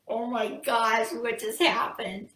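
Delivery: slow, drawn-out acted shock; stunned disbelief. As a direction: stretch the words, dumbfounded. Businessman learns the truth.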